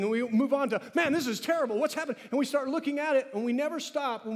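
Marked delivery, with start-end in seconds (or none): 0.9-2.2 high-pitched acted complaint; mock alarm. Preacher mimicking people who move on too fast, mock alarm. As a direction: play someone thrown by sudden bad news. Acts out hasty reaction to trouble.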